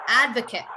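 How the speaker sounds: Advocate as AD-vuh-kit; short final syllable in Advocate, not ate; ending on t. Shown as a demonstration. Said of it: "You would end on the T".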